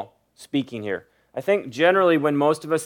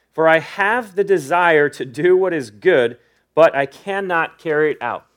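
measured scripture reading, weighting key words; slow reading. Real, not acted. Preacher reading Paul's confession to the congregation, measured and deliberate. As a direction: read the verses deliberately, pausing between clauses. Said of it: "read it pretty slow".

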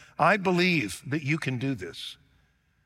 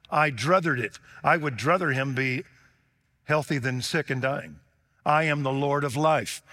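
raised, louder voice of Jesus declaring his power; Jesus proclaiming; 4 semitones higher, 4 dB louder than usual. Acted. Preacher voicing Jesus to the congregation, loud proclamation. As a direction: proclaim it as the Lord of life.

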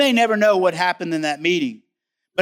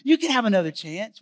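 tender parent voice; 3 semitones higher than usual. Retold or imitated. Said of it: "You're like".

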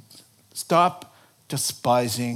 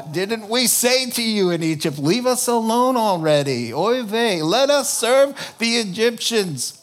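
put-on whiny Yiddish accent, louder; 8 semitones higher, 6 dB louder than usual. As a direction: kvetch it like a Jewish dad. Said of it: "I sounded so much like my dad".

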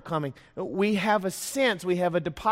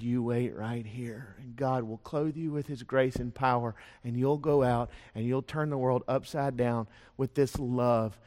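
tender promise; 4 semitones lower, 4 dB quieter than usual. Acted. Jesus speaking to gathered disciples.

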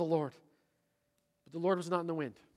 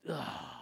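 disgusted groan; 4 semitones lower, 10 dB quieter than usual. Acted. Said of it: "the voice of contempt".

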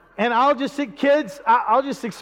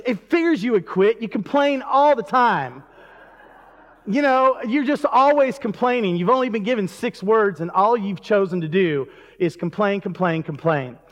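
exasperated monastery leader; 3 semitones higher than usual. Acted. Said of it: "then the leader of the".

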